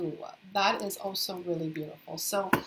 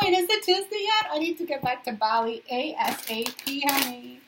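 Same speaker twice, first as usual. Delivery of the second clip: much higher and louder, giddy and laughing; excited whine; 5 semitones higher, 6 dB louder than usual. Retold or imitated. Retelling her longing for Bali, giddy high squeal. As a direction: squeal it like you can't wait. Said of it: "I was like".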